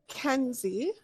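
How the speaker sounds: lightly voiced child, "Kenzie" lifted in pitch; hint of a small girl, name ending on a rise; little girl. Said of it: "and she says".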